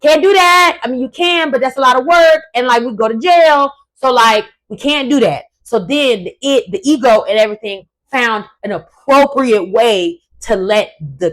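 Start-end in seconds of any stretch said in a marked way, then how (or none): 0.0-5.4 high, loud, shouty inner voice of reason; super ego voice. Acted. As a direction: play the panicked conscience, higher and louder. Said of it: "super ego said".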